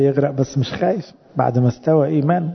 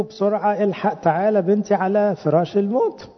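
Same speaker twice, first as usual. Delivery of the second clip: urgent plea; 6 semitones higher than usual. Retold or imitated. Jairus begging Christ, panicked.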